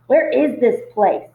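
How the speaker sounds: mild slow read-aloud yell over noise. Acted. Bruno shouting over the baby's wails, mild slow yell. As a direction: call it out slowly over a crying baby. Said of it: "Bruno yelled over the baby's wails".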